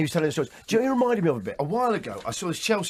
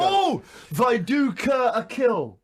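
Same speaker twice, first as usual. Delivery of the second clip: hammed-up call; 4 semitones higher, much slower than usual. Hamming up a listener's pun.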